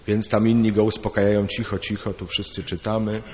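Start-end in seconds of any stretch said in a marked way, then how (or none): 1.5-3.2 hushing. Retold or imitated. Other boys hush the shouter.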